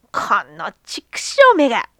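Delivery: hissed, furious whisper; angry whispered curse. Acted. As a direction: spit the curse out under your breath. Old man curses dog.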